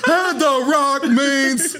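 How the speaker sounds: slow, drawn-out mock Rock line; hammed-up Rock catchphrase; The Rock impression. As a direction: stretch it like a ring promo. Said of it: "That is a pretty good Rock".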